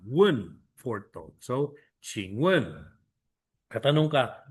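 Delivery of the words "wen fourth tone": "Wen" with a sharp falling tone; fourth tone wen. Shown as a demonstration. Teacher drilling the fourth tone on "Wen". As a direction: drop hard on "Wen".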